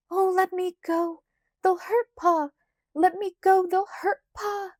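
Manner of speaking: high, panicked plea; a girl begging to run to Pa; screamed in a whisper. A narrator's reading. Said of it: "Laura screamed in a whisper".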